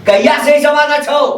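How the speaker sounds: angry demand. Acted. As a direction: raise the pitch and demand an answer. Same question repeated, escalating.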